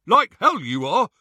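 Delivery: high, loud scoff; scornful disbelief. A narrator's reading. Captor rejecting Ron's false name, scornful. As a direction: scoff at the lie loudly.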